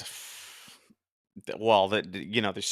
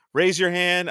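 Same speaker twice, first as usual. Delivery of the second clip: quoting the cartoon; 7 semitones higher, 5 dB louder, slower than usual. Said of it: "he's like".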